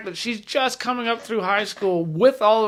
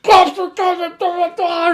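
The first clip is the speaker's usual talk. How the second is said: higher, hammed-up alarm call; prank broadcast voice; 10 semitones higher, 6 dB louder than usual. Friends pranking the wives over the Google Home, higher hammed-up alarm. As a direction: fake a warning through the speaker. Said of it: "so we were like".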